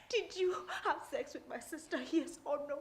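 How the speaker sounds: very soft, restrained demand; quiet interrogation. Acted. Wife questions husband about her sister, quiet and tense. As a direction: ask it low in volume, holding the anger in.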